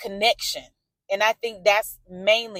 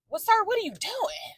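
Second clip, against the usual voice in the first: higher, mock polite scold of a driver; annoyed call at driver; 12 semitones higher, 5 dB quieter than usual. Real, not acted. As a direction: call out the bad driver from the car.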